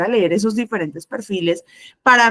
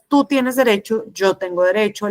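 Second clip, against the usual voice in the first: even, assertive statement. Shown as a demonstration. Teacher showing students assertive communication, assertive. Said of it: "Una comunicación asertiva es".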